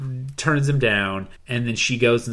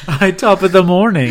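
giggling through a mock Irish line; laughing silly accent; 6 semitones higher, 8 dB louder than usual. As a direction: laugh out a jokey greeting.

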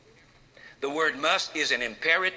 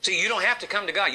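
higher, louder and fast, stressing have; louder repeat; 5 semitones higher, 3 dB louder, faster than usual. Acted. Preacher repeating to congregation, higher, louder and fast. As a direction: push it harder on the repeat.

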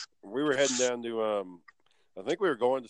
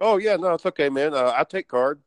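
mock bum voice; 4 semitones higher, 8 dB louder than usual. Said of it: "some bum that's like".

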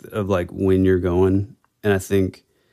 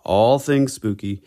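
upbeat announcer opening the show; bright radio host welcome; podcast host intro; 3 semitones higher than usual. Acted.

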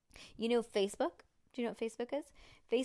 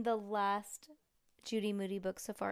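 ordinary delivery

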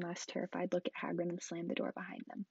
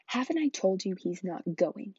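hissed; 6 dB louder than usual. Acted. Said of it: "he hissed".

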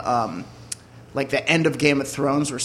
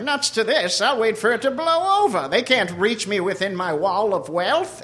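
snooty Mister Peanut; 5 semitones higher than usual. Acted. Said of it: "is like".

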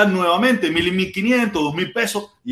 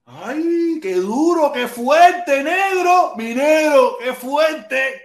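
mock shock; 7 semitones higher, much slower than usual. Mocking dramatic reaction.

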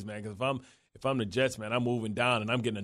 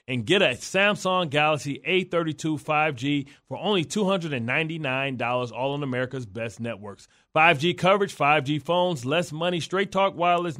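upbeat radio ad read. Acted. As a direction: sell it like a sponsor spot. Host reads sponsor ad.

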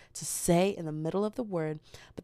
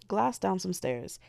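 deliberate search phrase; slower than usual. Shown as a demonstration. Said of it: "exactly how I want you to type it".

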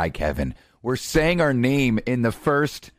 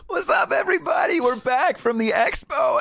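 excited greeting. Real, not acted. Show opening greeting.

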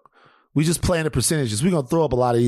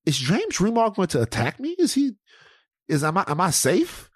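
mock panic; 6 semitones higher than usual. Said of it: "I'm like".

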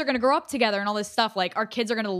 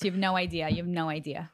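lightly done Staten Island accent; New York accent; 3 semitones lower, 6 dB quieter than usual. Shown as a demonstration. Guest promising to keep the accent, New York accent. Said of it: "I'll do the rest of it in this accent".

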